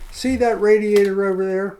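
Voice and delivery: imitating a fed-up sponsor; mock-angry question to the drunk; blunt retold demand. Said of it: "blunt from the heart".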